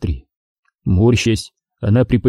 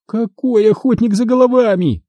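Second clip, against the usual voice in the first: through gritted teeth; 11 semitones higher than usual. A narrator's reading. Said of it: "процедила Астри сквозь стиснутые зубы".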